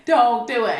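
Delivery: signal her not to; mock warning. Ex warning the girl not to tell, urgent. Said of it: "my ex started signaling to her".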